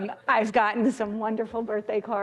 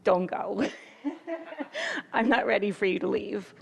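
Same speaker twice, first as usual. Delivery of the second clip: laughing through tears. Real, not acted. Farewell to retiring friend.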